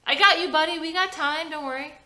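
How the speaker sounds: put-on calm the kid down; reassuring dad. A narrator's reading. Trevor reassuring his son Jordy, lightly voiced calm dad.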